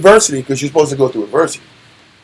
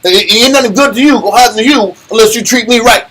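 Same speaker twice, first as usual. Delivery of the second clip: Color Purple line; faster than usual. Retold or imitated. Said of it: "like Color Purple".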